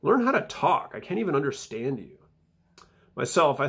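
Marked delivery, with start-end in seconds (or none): 0.0-2.2 imitating disgust. Teenager scorning her mom's English, mock disgust. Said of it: "visibly disgusted with her mom's English".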